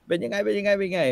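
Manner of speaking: high eager welcome; excited elder greeting. Retold or imitated. In-law greets returning king.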